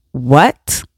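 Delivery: low rising what; disbelieving what; incredulous. Acted. Reacting to laundry called self-care, incredulous.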